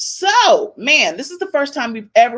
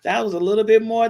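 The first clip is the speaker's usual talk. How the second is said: surprised ooh; 8 dB louder than usual. Retold or imitated. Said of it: "She was like".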